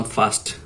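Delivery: ফার্স্ট with an open "a", like "fast"; old mispronunciation. Shown as a demonstration. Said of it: "আমি একটা ভুল সবসময় করতাম আগে".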